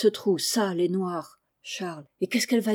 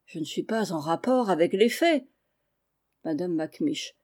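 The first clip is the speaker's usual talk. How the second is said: plain reading voice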